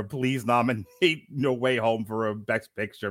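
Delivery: understated imitation of begging to camera; Kevin Smith pleading. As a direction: plead half-heartedly, dragging the words. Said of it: "Kevin Smith pleading into a camera".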